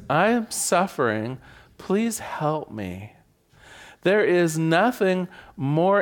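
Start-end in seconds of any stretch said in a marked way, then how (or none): 0.1-3.1 sincere plea. Shown as a demonstration. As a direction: ask for help gently and openly. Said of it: "The first one is".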